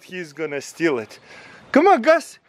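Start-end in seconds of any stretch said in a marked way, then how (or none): 1.7-2.4 high-pitched call to a dog; high, eager pet call. Real, not acted. Calling his dog.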